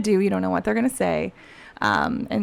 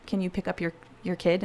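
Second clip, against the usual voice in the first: whispered; 7 dB quieter, faster than usual. Retold or imitated. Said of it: "and I said".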